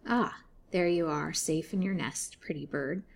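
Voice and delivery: lightly croaked, slowing on the taunt; a hint of an old crone's croak, mocking and unhurried; croaking old woman. Old jailer woman taunting Lily in bed, mild croak. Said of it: "croaked she".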